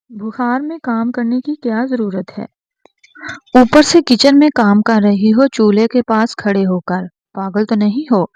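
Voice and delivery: loud, worried anger; angry scolding. Acted. Husband scolding feverish wife for cooking, angry and loud. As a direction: scold her for working while sick. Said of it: "وہ غصے سے بولا".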